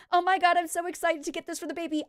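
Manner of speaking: put-on high, gushing baby-shopping delight; mock gushing excitement. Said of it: "It's gonna be like".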